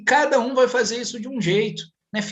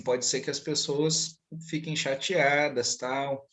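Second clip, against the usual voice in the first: low, soft and slow fatherly explanation; gentle retold reasoning; 5 semitones lower, 6 dB quieter, slower than usual. Father explaining to his little son why to be quiet, gently. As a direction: reason softly with a small child, retold.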